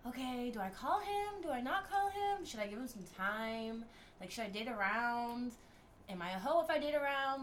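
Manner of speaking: anxious self-questioning. Retold or imitated. Anxious inner monologue, self-questioning.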